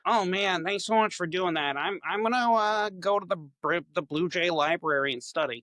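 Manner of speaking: grateful little nerd bird heading off to study, voiced high; nerdy blue jay. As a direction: pitch it up like a keen bookish bird thanking a friend. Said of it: "I would narrate the nerdy blue jay".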